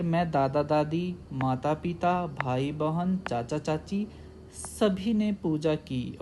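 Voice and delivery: brief break after दादा दादी, माता पिता, भाई बहन; short comma pauses. Shown as a demonstration. Teacher shows pupils commas in a list, small pauses after दादा दादी, माता पिता, भाई बहन. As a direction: read the relatives pair by pair, pausing slightly after each, as after माता पिता. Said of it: "And same here".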